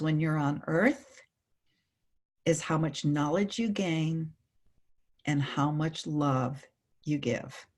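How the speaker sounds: slow tender voice of the being of light; gentle wisdom. Retold or imitated. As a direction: let the words sink in, slowly. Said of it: "the being of light turned to the man and said".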